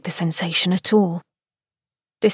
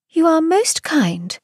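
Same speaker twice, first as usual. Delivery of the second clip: slow polite thanks; 9 semitones higher than usual. A narrator's reading. Miss York thanks him.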